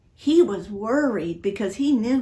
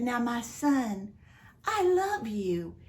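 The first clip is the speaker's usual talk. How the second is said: tender father; slower than usual. Acted. Father comforts the angry older son, tender and slow. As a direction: gently win back his son.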